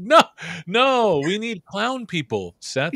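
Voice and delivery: high-pitched mock imitation of Ailsa. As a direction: tease her in a squeaky put-on voice. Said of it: "you're like".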